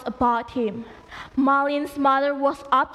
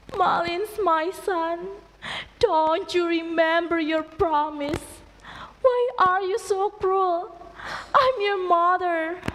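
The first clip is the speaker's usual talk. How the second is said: pleading mother; 3 semitones higher than usual. Acted.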